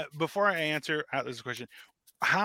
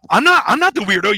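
indignant protest; 7 semitones higher, 12 dB louder than usual. Retold or imitated. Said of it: "And they're like".

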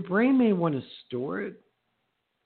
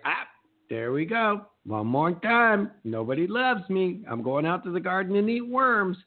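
mock self-pity; 5 semitones higher than usual. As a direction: play up the woe-is-me, pitch climbing. Acting self-pity over a failure.

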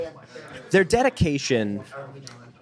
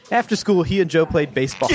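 laughing; 6 semitones higher than usual. Retold or imitated. Comic deadpan payoff line.

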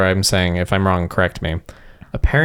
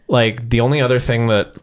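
stage whisper. Real, not acted. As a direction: whisper it so everyone hears. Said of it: "That was a stage whisper for those of you wondering".

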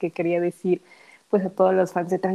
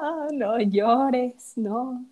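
soothing; 4 semitones higher, much slower than usual. Pretend. Comforting crying Jin in imagination.

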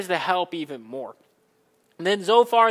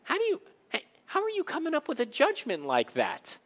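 God; 7 semitones higher, 6 dB quieter than usual. Retold or imitated. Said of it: "And God's saying".

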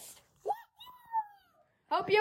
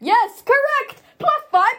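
game show host; 9 semitones higher, 4 dB louder than usual. Pretend. Quiz host awarding points.

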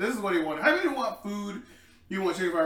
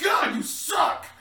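mock yell; 11 semitones higher, 4 dB louder, much slower than usual. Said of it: "They're like".

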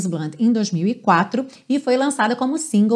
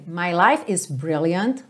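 slow lyric reading; 4 semitones lower, 3 dB quieter, much slower than usual. Shown as a demonstration. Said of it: "Aí ele repete essa frase".

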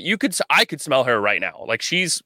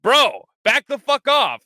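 high, louder, slow mock telling-off; mock confrontation; 13 semitones higher, 4 dB louder than usual. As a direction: draw it out like you're squaring up to him.

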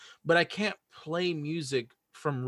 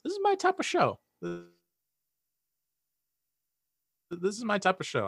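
excited; 7 semitones higher than usual. Retold or imitated. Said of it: "I'm like".

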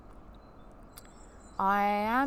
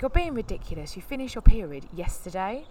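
dismissive partner; 3 semitones higher, 7 dB louder than usual. Retold or imitated. Partner dismissing her during argument.

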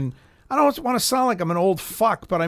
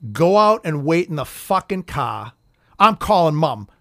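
fed up; 3 semitones lower, slower than usual. Retold or imitated. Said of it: "he went just like this".

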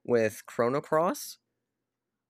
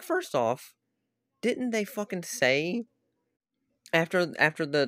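slow, higher, furious question; real anger; 4 semitones higher, slower than usual. Real, not acted. Ranting about the broken promise, angry. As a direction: lean hard on the outrage. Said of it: "I was so mad".

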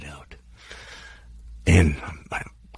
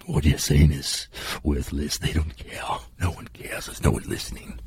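inner demon voice; 3 semitones lower, 4 dB quieter than usual. Retold or imitated. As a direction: voice the demon in your head, low-key and mocking. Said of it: "this little demon in me".

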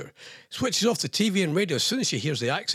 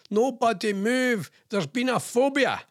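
slow, higher-pitched mock TV detective catchphrase; Taggart; 6 semitones higher than usual. Host parodying a Scottish detective show, mock-dramatic. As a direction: drag it out like a hammed-up police announcement. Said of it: "or, uh, Taggart".

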